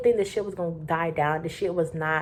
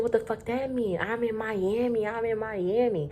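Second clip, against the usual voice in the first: put-on higher, slow indignant drunk guy; drunk guy's protest; 4 semitones higher than usual. Drunk guest protesting to the cops, slow and indignant. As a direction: insist slowly, like a drunk tourist. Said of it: "He said".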